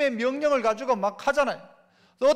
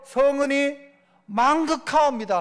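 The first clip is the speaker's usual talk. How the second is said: courtier's grateful reply; 2 semitones higher, 3 dB louder than usual. Acted. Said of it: "하는 거예요".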